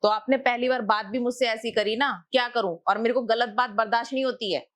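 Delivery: high, fast indignant retort; wife defends herself to the landlord, angry and fast. Acted. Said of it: "इतना गुस्सा देखा है".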